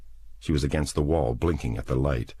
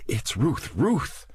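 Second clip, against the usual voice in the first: terrified whisper; 11 semitones higher, slower than usual. A narrator's reading. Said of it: "she said in a terrified whisper".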